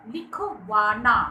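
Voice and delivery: लिखवाना slowly split, with वा leaned on; stress on वा. Shown as a demonstration. Teacher demonstrating word stress to pupils, stress on वा. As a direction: draw out लिखवाना and press on वा. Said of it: "लिखवाना में वा पर".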